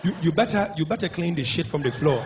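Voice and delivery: lightly imitated bossy African husband; a hint of a stern African husband; domineering African husband. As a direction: lay down the law, mock African accent. African husband ordering his wife.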